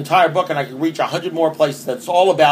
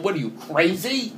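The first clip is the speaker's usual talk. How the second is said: incredulous mock outrage; 7 semitones higher than usual. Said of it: "you're saying".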